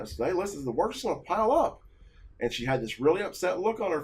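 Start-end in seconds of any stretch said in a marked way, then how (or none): 0.3-1.8 agitated. Retold or imitated. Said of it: "I was very agitated and upset".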